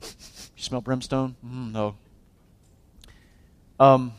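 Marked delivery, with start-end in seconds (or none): 0.0-1.9 much softer, slow, half-whispered worry; hushed nervous whisper. Retold or imitated. Frightened men whispering to each other about brimstone. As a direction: hush it like they're scared of what's near. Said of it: "They're like".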